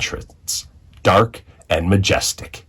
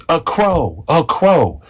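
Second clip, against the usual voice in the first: taunting shout; 7 semitones higher than usual. A narrator's reading. Bully Nathan shouting at the new girl, taunting. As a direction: jeer it across the playground.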